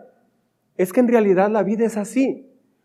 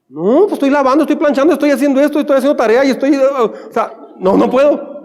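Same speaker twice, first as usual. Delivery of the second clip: higher, complaining list of excuses; whiny excuses; 3 semitones higher than usual. Retold or imitated. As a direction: rattle off excuses like a sulky kid. Acted excuse to mother.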